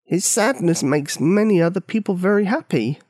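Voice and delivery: gently. A narrator's reading. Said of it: "The Old Mal said gently as if it was the great truth".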